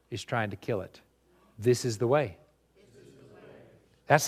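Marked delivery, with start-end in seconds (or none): 1.6-2.4 flat, firm, no inflection; a hint of Mandalorian resolve; level conviction. Shown as a demonstration. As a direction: state it like a fixed code. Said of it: "it's meant to be with level conviction".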